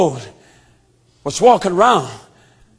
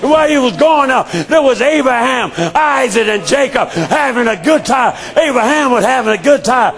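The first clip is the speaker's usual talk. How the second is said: full-force preaching; 3 semitones higher than usual. Acted. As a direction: preach it to the back pew.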